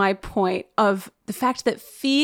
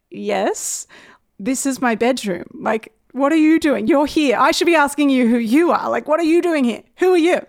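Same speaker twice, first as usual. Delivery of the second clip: woken in bed, confronting two policemen, getting more indignant; 3 semitones higher than usual. Retold or imitated. Confronting police in her bedroom.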